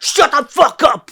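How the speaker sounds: high, loud exasperated yell; loud shout of shut the fuck up; mock outburst. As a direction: blurt it out like you can't take it. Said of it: "And then I'm literally just like".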